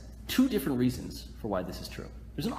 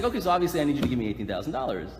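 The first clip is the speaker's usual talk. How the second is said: deadpan fast demand, imitating the friend; straight face; 2 semitones lower, faster than usual. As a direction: rattle it off, straight-faced and quick. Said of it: "Like, straight face".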